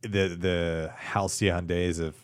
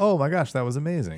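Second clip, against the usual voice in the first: amazed; 8 semitones higher than usual. Retold or imitated. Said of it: "and I'm like".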